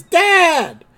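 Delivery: high, loud, stretched cry; imitated surprised yell; Homer. Homer seeing his father at the door, mock surprised shout. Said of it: "And Homer says".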